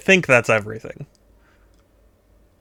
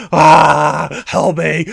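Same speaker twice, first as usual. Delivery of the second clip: mock cry for help; 3 semitones higher, 7 dB louder, much slower than usual. Voicing scared character in picture.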